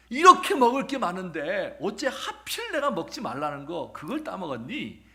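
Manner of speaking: a scolding parent asking why; God confronting the woman, stern and loud; God questioning. Acted. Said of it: "라고 여자에게 물으니까".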